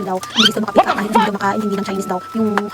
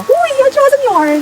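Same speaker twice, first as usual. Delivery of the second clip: high, loud and slow teasing shout; drawn-out excited cry; 9 dB louder, much slower than usual. Real, not acted. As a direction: stretch it out playfully. Playful exclamation at viewers. (mabagal, mataas at malakas na biro)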